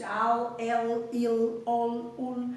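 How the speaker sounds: each syllable al, el, il, ol, ul said apart, one at a time; teacher modelling the L syllables for a class; syllable sounds demo. Shown as a demonstration. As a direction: sound out al, el, il, ol, ul slowly for pupils. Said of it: "quando nós encontramos estes sons".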